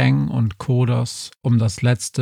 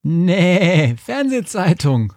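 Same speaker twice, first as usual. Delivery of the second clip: higher, strange bleating sheep voice; 8 semitones higher, slower than usual. A narrator's reading. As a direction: bleat the answer dismissively. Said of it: "meckerte das Schaf". (meckerndes Schaf)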